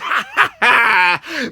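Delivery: exaggerated villain-style laughing; mocking laugh. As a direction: mimic a gloating cackle.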